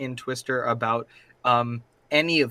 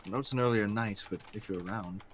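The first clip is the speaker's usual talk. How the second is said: soft in-character call; 3 semitones lower, 7 dB quieter than usual. Acted. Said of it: "and say".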